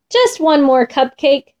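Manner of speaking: building to a high, drawn-out plea; child's wail for a treat, no real shout; mild storybook yell. A narrator's reading. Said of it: "I yelled on the way".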